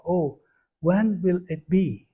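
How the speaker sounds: slow, gently pleading question; imploring. Shown as a demonstration. Devotee imploring Srimati Radhika, longing plea. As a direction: draw it out with longing. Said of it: "we want to implore something".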